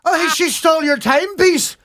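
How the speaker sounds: high, hammed-up Irish brogue; DiCaprio's Irish accent mocked on a podcast, high and hammy. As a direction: overdo a Gangs of New York Irish accent, laughing. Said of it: "when Leonardo DiCaprio does an accent".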